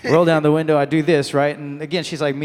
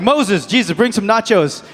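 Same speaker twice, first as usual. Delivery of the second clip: God calling out; 6 semitones higher, 5 dB louder than usual. Retold or imitated. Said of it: "God was like".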